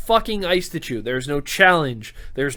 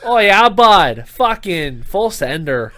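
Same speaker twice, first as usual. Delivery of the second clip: put-on slow Canadian bro accent, drawn-out bud; mock Canadian bro hyping it up; a Canadian accent with an Aussie tinge; 5 dB louder, slower than usual. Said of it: "You sound like a Canadian".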